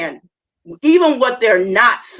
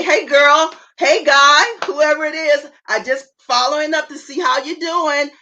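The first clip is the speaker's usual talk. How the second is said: friendly check-in; 5 semitones higher than usual. Shown as a demonstration. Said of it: "call them back and say".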